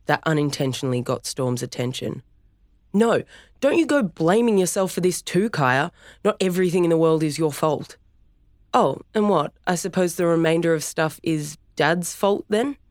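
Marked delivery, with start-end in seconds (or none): 2.9-12.8 heated argument. Acted. Brother and sister argue.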